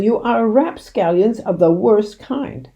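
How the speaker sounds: slow, loud indignant shout. A narrator's reading. Mister Hazel still shouting at the two men, slow and loud. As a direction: drag out the insult with outrage. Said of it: "shouted Mister Hazel".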